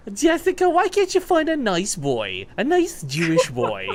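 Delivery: high, slow nagging Jewish mother; Jewish mom. Retold or imitated. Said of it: "Your mom became Jewish".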